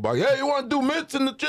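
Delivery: relaxed boxing trainer voice. Retelling a gym story, quoting the trainer: imitating Pepper Roach's way of talking. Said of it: "They all talk like that".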